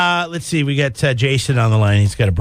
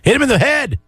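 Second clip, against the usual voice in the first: mock cheer, pitched way up; egging on a wrestler; 10 semitones higher than usual. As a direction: call it out high like a rowdy wrestling fan. Acting out cheering a chair hit.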